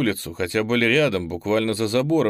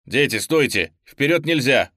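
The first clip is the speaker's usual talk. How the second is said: shouted warning, louder on the second phrase; shouting; 4 semitones higher, 5 dB louder than usual. Acted. Teacher to pupils from above, alarmed shout. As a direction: yell to stop the children. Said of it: "кричал учитель откуда-то сверху".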